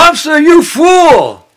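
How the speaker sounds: high, loud, slow booming rebuke; voice from the sky. Acted. Heavenly voice scolding Kamsa, high booming shout. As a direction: thunder it down from above. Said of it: "He heard the voice from the sky".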